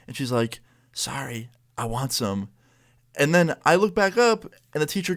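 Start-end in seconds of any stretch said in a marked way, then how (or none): 0.9-2.5 hushed, secretive murmur; imitated whisper. Classmate whispering back while teacher looks away, hushed. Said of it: "well, whisper talking".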